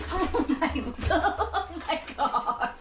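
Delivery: slow, high words through real laughter; laughing. Real, not acted. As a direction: giggle helplessly at the puppy. Laughing at the wild dog.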